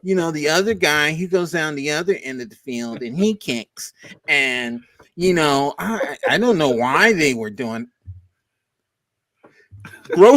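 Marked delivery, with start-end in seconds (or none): 0.0-7.9 mock Tucker press answer. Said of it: "you went".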